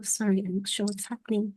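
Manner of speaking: choppy, dropping audio; radio breaking up. Real, not acted. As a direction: voice cutting in and out. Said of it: "You're breaking up".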